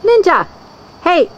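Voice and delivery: high sing-song call; calling the pet. Real, not acted. Owner calling pet by name. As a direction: call the dog across the yard.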